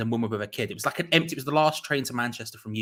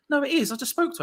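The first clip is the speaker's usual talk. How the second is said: insistent train guard; faster than usual. Retold or imitated.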